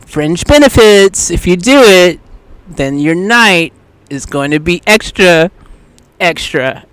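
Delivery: tempting voice. Retold or imitated. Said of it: "Then another voice is saying".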